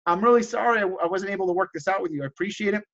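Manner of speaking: mild, understanding apology; not mad. Retold or imitated. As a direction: let it go without arguing. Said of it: "I don't get mad. I don't argue".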